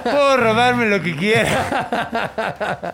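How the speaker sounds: laughing. Real, not acted. Joking cohost adds line.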